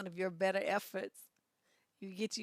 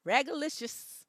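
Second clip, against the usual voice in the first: normal talking voice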